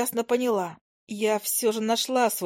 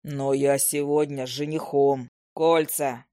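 much lower, slow rumble; rumbling troll; 6 semitones lower, slower than usual. A narrator's reading. Troll rumbling an apology to the owl. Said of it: "пророкотал тролль".

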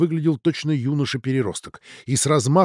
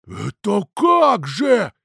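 bewildered; 6 semitones higher, 3 dB louder, much slower than usual. Acted. Father bewildered.

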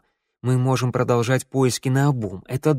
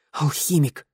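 startled gasp; 3 semitones higher, slower than usual. A narrator's reading. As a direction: let it out as a small gasp. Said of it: "охнул Тео". (изумлённо охнув)

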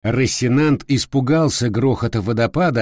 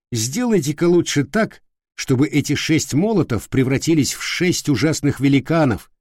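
indignant knight; 3 semitones higher than usual. Acted. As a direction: lecture the squire haughtily. Knight rebukes his squire.

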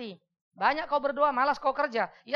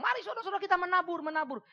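mock preacher appeal; 8 semitones higher than usual. Meniru pengkhotbah yang minta persembahan.

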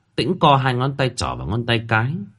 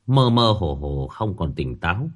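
usual speaking voice

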